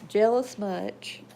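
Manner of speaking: slow teasing to the dog. Real, not acted.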